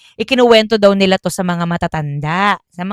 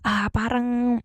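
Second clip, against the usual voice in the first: hushed secret telling; 7 dB quieter than usual. Retold or imitated. Cousin confiding what he saw in the grass, hushed. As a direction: share it like a secret.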